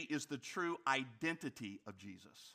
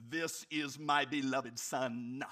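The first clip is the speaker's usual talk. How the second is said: bad Darth Vader; 4 semitones lower, slower than usual. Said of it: "I can't do a very good Darth Vader".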